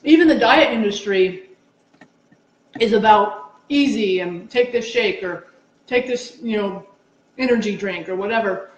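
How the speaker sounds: chewing while talking; mouth full of peanut butter. Real, not acted. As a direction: talk through a mouthful. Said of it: "sorry, my mouth is full of peanut butter and apple".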